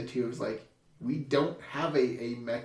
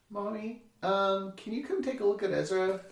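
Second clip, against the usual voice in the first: calm request; 5 semitones higher, 3 dB quieter than usual. Retold or imitated. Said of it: "this is exaggerated".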